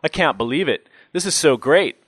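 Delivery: high-pitched fan's gushing; starstruck. A narrator's reading. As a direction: squirm with delight before a childhood hero. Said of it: "as if he'd just met his childhood sports hero".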